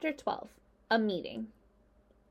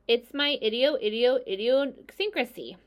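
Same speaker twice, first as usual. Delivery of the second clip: high, louder gander tripping over a long word; stammering gander; 4 semitones higher, 5 dB louder than usual. Acted. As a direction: trip over idiosyncrasy like a flustered gander. Gander stumbles over big word.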